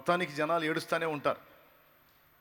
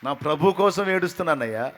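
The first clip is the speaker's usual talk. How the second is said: louder pleading cry; the same reply raised to a cry; 2 semitones higher, 9 dB louder than usual. Acted. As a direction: call it out to him in anguish. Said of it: "ఆమె answer చేసింది".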